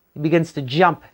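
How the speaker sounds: ordinary delivery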